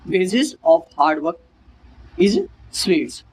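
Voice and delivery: very slow, broken into two parts; slow repeat. Shown as a demonstration. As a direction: repeat it in chunks slowly. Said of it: "repeat of example".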